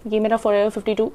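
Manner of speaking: ये मेरा Forever फिफ्टी टू run together with word endings swallowed; rushed, swallowed words. Real, not acted. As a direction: rattle off the product name and half-swallow it. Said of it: "मैं बहुत फटाफट बोलती हूँ तो मेरा आधा वर्ड्स तो मैं खुद ही खा लेती हूँ". (जल्दी में, आधे शब्द निगलते हुए)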